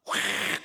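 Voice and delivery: sudden loud burst of noise; imitated roar. Pastor imagining he could overpower his critics, roaring. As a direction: mimic a yell in one short blast. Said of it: "과음을 지르면".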